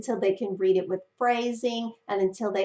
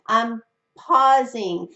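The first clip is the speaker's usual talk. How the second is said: deliberate pause; 6 dB louder, much slower than usual. Shown as a demonstration. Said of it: "just like I'm doing now".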